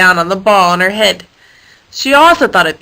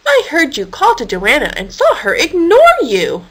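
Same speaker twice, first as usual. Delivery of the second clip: indignant; 5 semitones higher than usual. Acted. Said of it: "Karen said indignantly".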